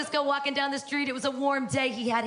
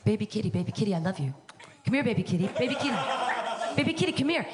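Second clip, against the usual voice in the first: put-on baby talk; 4 semitones lower, faster than usual. Cooing to her new cat to come over. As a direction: lower cooing to a kitten. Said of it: "I'm constantly saying".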